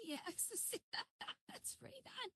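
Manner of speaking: laughing, soft and slow. Real, not acted. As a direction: laugh through the words. Laughing at a chat message.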